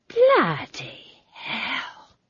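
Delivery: slow, high, stunned; drawn-out shocked gasp of words; very quietly. A narrator's reading. Old witch stunned a second time, very quiet. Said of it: "very quietly".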